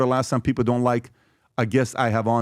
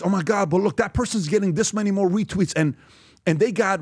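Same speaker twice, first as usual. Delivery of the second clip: lightly mocked naive amazement, higher pitch; naive onlooker; 5 semitones higher than usual. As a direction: mimic a naive person marvelling, a bit higher. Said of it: "you can't be naive and not realize".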